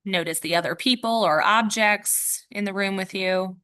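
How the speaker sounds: measured meditation guide, long pauses between instructions; guided meditation. Real, not acted. Yoga teacher guiding listeners to notice the room, guided meditation. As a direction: guide listeners gently into noticing, leaving space after each cue.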